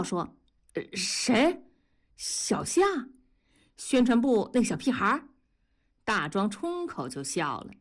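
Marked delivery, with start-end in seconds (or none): 0.7-5.3 a startled, quick burst of questions. A narrator's reading. Factory worker startled when asked about the young man, quick surprised questions. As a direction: caught off guard, words tumbling out. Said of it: "大庄吓了一跳".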